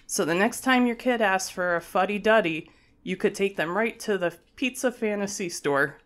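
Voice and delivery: reading the news like an anchor. Acted. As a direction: deliver it as a TV anchor. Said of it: "read it like a news anchor".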